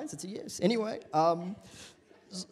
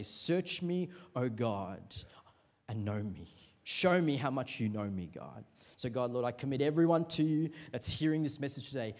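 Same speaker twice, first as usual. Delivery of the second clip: earnest, steady prayer voice; opening prayer; 3 semitones lower than usual. Acted. Pastor prays for the church before the message, earnest prayer. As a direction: pray it sincerely over the room.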